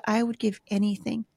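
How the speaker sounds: put-on soft, slowing plea of a tearful girl; retold sobbing. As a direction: imitate a crying teen, fading to a whisper. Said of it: "She's just sobbing".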